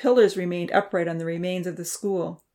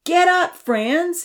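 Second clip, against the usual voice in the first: high, loud angry shout; angry call; 12 semitones higher, 7 dB louder, much slower than usual. A narrator's reading. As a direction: call him out of bed angrily. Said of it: "Damien called out angrily".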